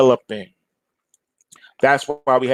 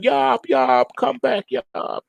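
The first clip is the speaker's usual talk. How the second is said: lightly voiced cartoon dad, higher, slow at the end; a mild retold plea after the departing ship; cartoon dad calling; 10 semitones higher, slower than usual. Retelling the Bugs Bunny episode, a light, higher cartoon dad calling. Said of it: "the dad is going".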